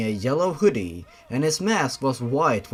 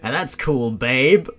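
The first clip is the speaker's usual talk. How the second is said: smirking flirt; 4 dB louder than usual. Acted. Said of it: "Ben smirked".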